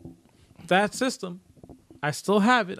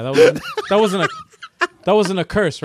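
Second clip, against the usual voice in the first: laughing protest; 5 dB louder than usual. Real, not acted. Flustered laughing defence.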